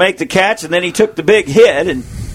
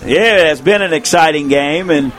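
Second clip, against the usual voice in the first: worn, hoarse from calling; strained, tired hoarse voice; 3 semitones lower than usual. Real, not acted. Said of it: "losing my voice".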